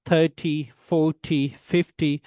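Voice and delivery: THIRTY, FORTY, FIFTY stressed up front, short TY; first syllable stressed. Shown as a demonstration. Teacher contrasts with teen, front stress. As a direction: punch THIR, FOR, FIF and drop TY. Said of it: "stress the word third".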